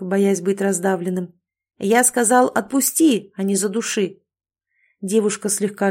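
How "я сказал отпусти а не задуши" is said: kitten voice. Acted. Kitten scolding the girl.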